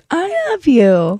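put-on drawn-out baby voice, lifted pitch; toddler voice. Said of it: "she says it like that for the first time".

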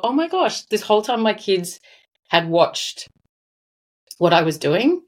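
choked-up, halting retelling with long pauses; real emotion breaking up the phrases; getting emotional. Real, not acted. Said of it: "Sorry, I'm getting a bit emotional".

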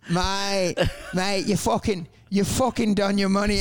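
put-on rough go at a British gypsy accent; attempted gypsy accent. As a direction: imitate a gypsy tradie's accent, imperfectly. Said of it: "I can't even do the accent".

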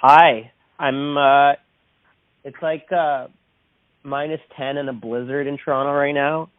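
phone line sound; talking through a phone call; over the phone. Real, not acted. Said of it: "I am on the phone right now with".

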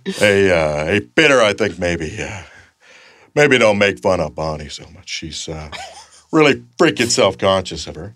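the neighbour answering back; Joe impression. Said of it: "and Joe's like".

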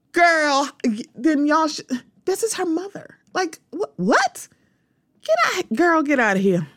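rising high and squeaky, "get out" in pure disbelief; can't believe it, voice climbing to a squeal; incredulous disbelief. Real, not acted. Vlogger to viewers, shrill incredulous disbelief at the comments.

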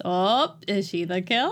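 hammed-up suspenseful question, rising at the end; mock alarm. Host voices the movie hinting at viewers, mock alarm. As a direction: pose it as an obvious, teasing hint. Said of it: "The movie is already shouting at us".

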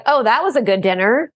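mock sassy remark, rising on was; lightly sarcastic "Oh, that was a good dinner". Shown as a demonstration. Demonstrating a child's sassy comment to the parents. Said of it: "when you're giving me a sassy comment".

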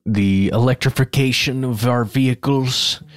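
a touch of a grand announcer voice on the phrase; accidentally pompous read; odd delivery. Real, not acted. Cohost slipping into a strange voice about car electrification. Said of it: "Why did I say it like that?".

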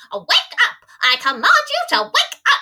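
high, loud commanding yell; pompous little knight. Retold or imitated. Sir Didymus waking Sarah at the gates, high pompous command. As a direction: bark orders like a tiny gallant knight. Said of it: "Sir Didymus is like".

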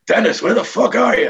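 high-pitched holler from upstairs; George calling out. Retold or imitated. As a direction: shout to find someone in the building. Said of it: "I hear George's voice".

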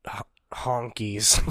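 drawn-out, near-whispered punchline; hushed joke. Pretend. Co-host joking about whom the hospital admits, hushed. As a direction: let it slip out slowly under the breath.

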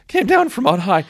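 high laughing repeat; laughing retake. Shown as a demonstration. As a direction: laugh through the words. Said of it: "my voice just cracked".

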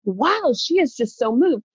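amazed, pitch swooping up; gobsmacked. Retold or imitated. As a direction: retell it in awed disbelief, drawing out the wow. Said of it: "so I'm gobsmacked".

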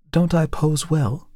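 a model insisting she poses well. A narrator's reading. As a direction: press her point, a little hurt. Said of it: "she insisted".

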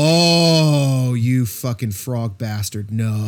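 long drawn-out groaning "oh", then low and slow; mock dismay. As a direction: draw it out in mock disgust. Acted reaction to bad accent switch.

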